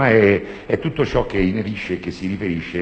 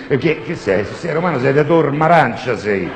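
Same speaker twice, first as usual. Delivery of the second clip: mock challenge; 6 semitones higher, 5 dB louder than usual. Mocking the professor's Roman origin.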